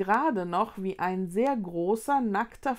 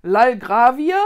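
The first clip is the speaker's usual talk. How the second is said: puzzled teacher; 3 semitones higher, 12 dB louder, slower than usual. Acted. Teacher mishears the word.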